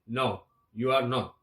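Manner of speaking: slow English answer; slow model reply. Shown as a demonstration. Teacher models the obvious reply, slow and deliberate. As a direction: say the retort slowly for learners. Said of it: "la respuesta sería obvia".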